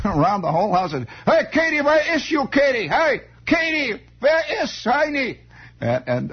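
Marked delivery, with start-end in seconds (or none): 1.3-5.4 high, drawn-out holler in mock German accent; hollering German father. Mister Falpo calling Katie round the house, German-accented holler. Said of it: "Mister Falpo would holler around".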